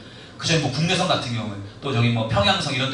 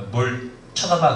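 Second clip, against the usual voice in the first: mild tough-guy glare; slower than usual. Retold or imitated. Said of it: "곱게 말할 때".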